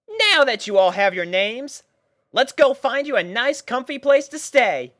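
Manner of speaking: a pony captain lining up her troops; Rainbow Dash voice, bossy and bright. A narrator's reading. Rainbow addressing puppies.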